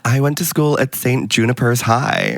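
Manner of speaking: lightly put-on American; American accent. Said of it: "do American accents".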